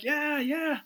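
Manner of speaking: high, eager double yes, lightly acted; mock starstruck band kids agreeing. Band kids answering a rock star, mock eager. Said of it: "We're like".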